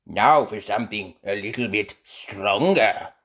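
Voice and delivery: loud teasing build-up; a hint of mischief; lightly voiced Grampy. Grampy Rabbit teases.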